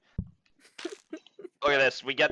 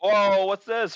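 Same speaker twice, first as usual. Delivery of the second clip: delighted whoa, higher and louder; surprised; 8 semitones higher, 5 dB louder, slower than usual. Real, not acted. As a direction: pounce on a new find. Finds floor buffer in shop.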